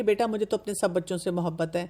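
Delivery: put-on calm a child with tenderness; lovingly. Shown as a demonstration. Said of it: "بہت پیار سے کہیں کہ".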